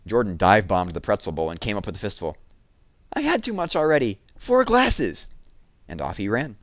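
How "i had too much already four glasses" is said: put-on high, excited little-boy voice; a four-year-old bragging breathlessly. A narrator's reading. Four-year-old boy answering Jessie, high and excited.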